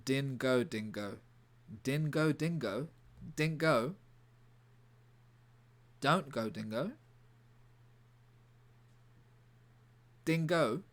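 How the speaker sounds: lightly acted Cockney cry; Cockney accent. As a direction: call it out with a touch of Cockney. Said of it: "say in his Cockney accent".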